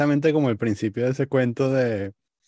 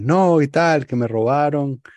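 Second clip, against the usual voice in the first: louder, higher pleading stranger; mock pleading; 4 semitones higher, 4 dB louder, slower than usual. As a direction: plead loudly, playing the victim. (súplica fingida, más fuerte y aguda)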